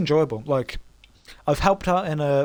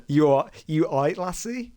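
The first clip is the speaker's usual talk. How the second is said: mock Scottish accent; 4 semitones higher than usual. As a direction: tease a girl in a Scottish way. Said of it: "just the fact that you can say".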